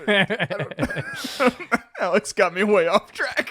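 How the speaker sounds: laughing through the words, slow; real laughter breaking up the line. Real, not acted. Podcast host laughing at his cohost for derailing him.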